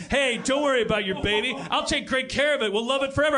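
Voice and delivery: put-on a cheesy boyfriend promising; mock boyfriend. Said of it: "all of a sudden it's like".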